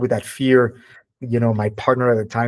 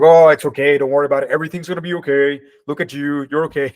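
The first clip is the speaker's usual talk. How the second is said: lightly acted reassuring dad, raised pitch at times; retold reassurance; 3 semitones higher, 4 dB louder, faster than usual. Dad comforts his crying son as he becomes a father, mock reassuring. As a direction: imitate a father hurrying to soothe.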